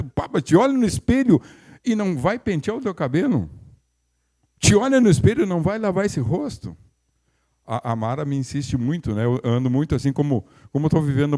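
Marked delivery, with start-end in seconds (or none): 0.0-6.7 higher, direct mock rebuke; blunt challenge. Preacher voicing James's blunt rebuke, higher and direct. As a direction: throw the question straight at them. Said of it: "a palavra do Tiago aqui é meio direto".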